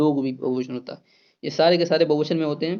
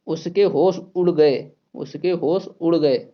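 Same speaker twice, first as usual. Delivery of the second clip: slow model sentence; slower than usual. Shown as a demonstration. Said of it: "ना कि इसको ऐसे बोलेंगे".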